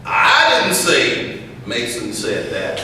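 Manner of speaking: slow, deliberate, each word weighed; slow and measured. Shown as a demonstration. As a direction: take it slowly and calmly. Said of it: "I said the same thing three different ways".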